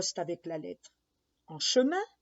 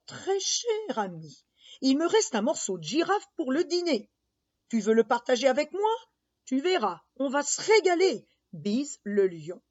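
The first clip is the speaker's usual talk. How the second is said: crocodile letter voice. Acted.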